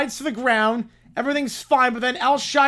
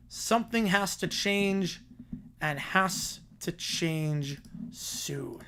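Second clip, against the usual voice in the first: ominous; 3 semitones lower, 8 dB quieter, much slower than usual. A narrator's reading. Ominous narration ending the segment.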